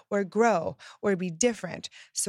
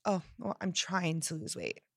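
half-hearted; 7 dB quieter than usual. Shown as a demonstration.

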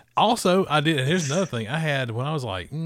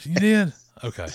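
imitating grandma's thick Southern accent, higher; grandmother's Southern accent; 8 semitones higher, 4 dB louder than usual. Grandmother hearing about the chitlins, in a higher, imitated thick Southern accent. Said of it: "she had a real thick Southern accent".

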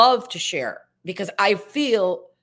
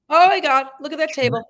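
mock exasperated nitpicking; 4 semitones higher, 3 dB louder than usual. Mock reaction to fake props.

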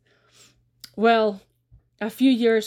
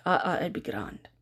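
whisper; 4 semitones lower, 5 dB quieter than usual. Retold or imitated. Shy Davy.

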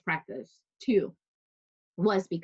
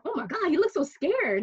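high, upset "oh my God"; much higher, alarmed sympathy; dismayed pity; 10 semitones higher than usual. Retold or imitated. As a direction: gasp out the worry for the horse. Retold pity for scared horse.

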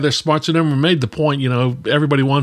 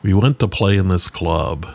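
lightly voiced storyteller, lower and weighty; a touch of authority and heaviness in a lowered voice; a musician's gravitas; 4 semitones lower than usual. Musician telling stories about the band, mild gravitas. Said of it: "he talks with a voice of great gravitas".

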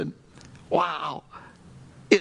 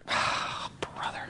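whispered groan; 7 dB quieter, slower than usual. Retold or imitated. Retold grumble at guard.

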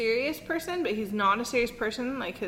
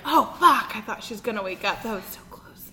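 startled parents; 5 dB louder than usual. Retold or imitated. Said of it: "and they're like".

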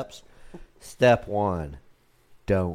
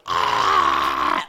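mock drunken groan; 7 semitones lower, 8 dB louder than usual. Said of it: "my fucker's going".

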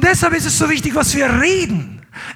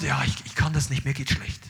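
much lower, much softer whiny mumble; mock complainer; 11 semitones lower, 9 dB quieter than usual. Preacher mocking a gloomy believer who gives up, sulky mumble. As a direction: sulk it like a self-pitying churchgoer. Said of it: "die nicht einfach sagt".

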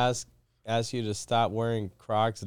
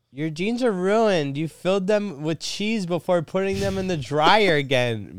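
nagging wife voice; 8 semitones higher than usual. Acted.

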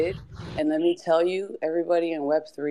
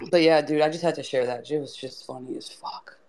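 tipsy. Real, not acted. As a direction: talk with a tequila buzz. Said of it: "you sound exactly like her".

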